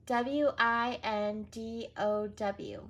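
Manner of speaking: W I N D O W letter by letter; careful spelling; spelled out. Shown as a demonstration. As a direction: spell each letter slowly.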